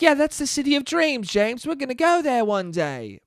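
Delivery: high, dreamy parent voice. Retold or imitated. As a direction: coo it like a doting storybook parent. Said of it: "they're like".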